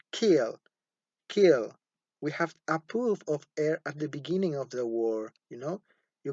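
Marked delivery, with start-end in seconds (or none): 0.1-1.7 kill with a clear puff of air after the k; aspirated kill. Shown as a demonstration. Teacher drills kill for students, puff of air on k. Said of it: "pronounce it".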